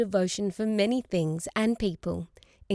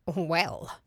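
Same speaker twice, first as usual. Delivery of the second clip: protesting; 3 semitones lower than usual. A narrator's reading. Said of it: "said Grandmother protestingly".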